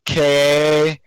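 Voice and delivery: very slow, drawn-out mock spelling of Ahmed's name; mimicking Ahmed's spelling. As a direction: stretch each letter like a mock spelling. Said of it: "what does he say?".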